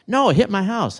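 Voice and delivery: lightly acted grumpy refusal; mock indignant no. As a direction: Dale retold as put out that the drone hit his house. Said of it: "Dale was not happy with this".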